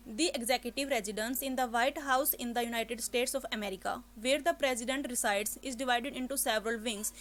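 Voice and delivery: slow reading that gets stuck and restarts; read aloud with a stumble. Shown as a demonstration. Teacher demos getting stuck mid-reading. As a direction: stumble on president, then carry on. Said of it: "मैं यहाँ पर बोलते time stuck हुई".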